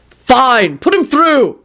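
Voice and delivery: high, exasperated yell. A narrator's reading. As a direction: call out angrily, giving in. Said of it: "Quentin yelled".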